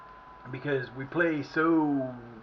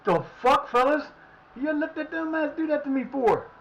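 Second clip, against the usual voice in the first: louder, higher complaint as the keeper; annoyed goalkeeper; 11 semitones higher, 5 dB louder than usual. Retold or imitated. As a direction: play the keeper griping at his defenders. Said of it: "and goalkeeper's going".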